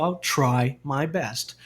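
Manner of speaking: very slow, clear I'll try my best; slow example. Shown as a demonstration. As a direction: stretch it out for the class. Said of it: "por exemplo".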